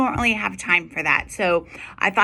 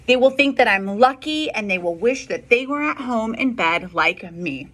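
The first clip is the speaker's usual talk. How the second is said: put-on defiant child; 3 semitones higher than usual.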